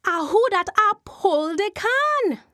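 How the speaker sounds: high, loud ghostly call; Jumbie voice. Acted. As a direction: demand it like a spirit from the earth. Jumbie voice again.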